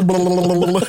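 imitated sputtering balloon noise; face-in-the-ragout sputter. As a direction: blubber it like a face hitting a balloon. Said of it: "un bruit de ballon".

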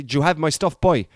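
lightly put-on Cork accent; a hint of Cork in a mobster's question. Mobster asking about his stuff, in a lightly imitated Cork accent. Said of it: "that's a Cork thing".

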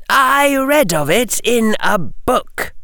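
high, hissing snake-speech; serpent hiss. A narrator's reading. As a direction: hiss it in Parseltongue. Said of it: "Harry hissed".

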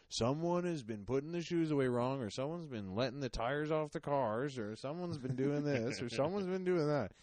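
mock announcement of a list of complaints; scolding boss. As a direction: address the staff as a fed-up boss. Boss scolding staff at meeting.

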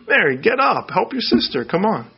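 a hint of an exasperated host; mock impatient order. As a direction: hurry her along, a touch annoyed. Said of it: "what Jesus doesn't do is say".

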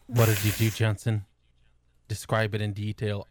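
loud, low mock interrogation. Friend mock-interrogating another about his chin. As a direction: demand it like a cop.

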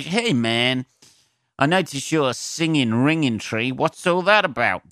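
butter up the crowd with fake interest; mock pandering comic. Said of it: "I could make, uh, ingra".

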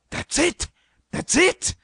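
high-pitched burst of discovery; excited. A narrator's reading. Stanley hits on the answer to the glass, excited. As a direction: exclaim it as the idea strikes. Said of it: "He turned excitedly to the Queen".

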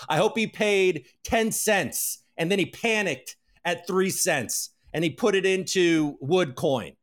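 gleeful gloat. Real, not acted. Wishing losses on Vince, slow gloating. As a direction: relish every word of his loss.

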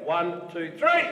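loud count to three. Shown as a demonstration. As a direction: count it out loudly. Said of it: "Not, not loud enough".

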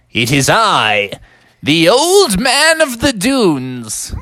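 slow, grand wizard announcement; the wizard revealing himself; grand old wizard. Acted. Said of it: "and the wizard said".

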